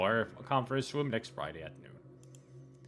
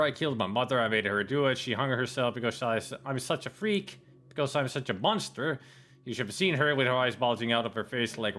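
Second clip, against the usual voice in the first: frantic confession. Acted. Reading out a message confessing murder, building to a frenzy. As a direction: start contained, work up into a frenzied loop.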